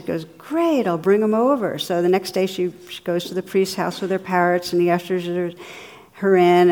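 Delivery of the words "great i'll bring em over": a high, bright "Great" tipping into eager agreement; lightly acted eager churchgoer; enthusiastic. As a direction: play her keen and thrilled. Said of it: "the woman's really enthusiastic".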